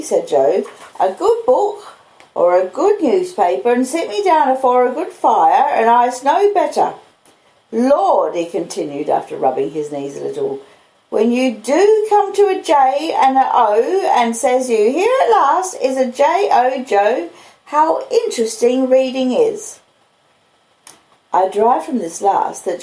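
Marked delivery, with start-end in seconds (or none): 1.0-8.3 higher, homely country blacksmith voice; Joe the blacksmith. Acted. 11.1-19.8 higher, homely country blacksmith voice; Joe the blacksmith. Acted.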